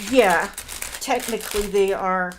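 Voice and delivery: talking while crunching chips; munching a snack mid-sentence. Real, not acted. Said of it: "sorry about the crunching".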